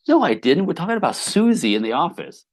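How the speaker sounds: startled, high and loud protest; husband caught off guard, protesting his innocence loudly; surprised denial. Retold or imitated.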